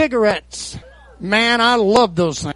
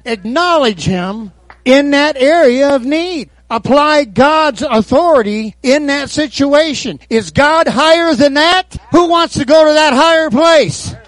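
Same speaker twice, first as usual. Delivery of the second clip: rally the church higher and higher; rising preacher's call; 4 semitones higher, 4 dB louder than usual. Real, not acted. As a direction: climb from steady commands to a full shout.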